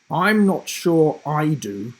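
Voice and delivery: slow, dry disapproval; a teacher judging the painting; doubtful teacher. Acted. Teacher voiced in story.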